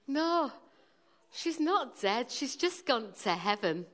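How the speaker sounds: lightly imitated wise older brother; a hint of a matter-of-fact boy; older child's voice. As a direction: correct the little one like a knowing child. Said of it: "the older child, in his wisdom".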